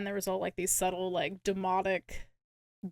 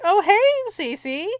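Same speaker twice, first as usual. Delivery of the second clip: high, loud and drawn-out hello; mock oblivious greeting; 10 semitones higher, 9 dB louder, slower than usual. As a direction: greet her slowly with hammed-up cheer. Acting out dad's oblivious greeting.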